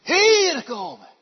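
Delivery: loud, high, slowed command; caretaker calling. Retold or imitated. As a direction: order a kid over sternly. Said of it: "die roept".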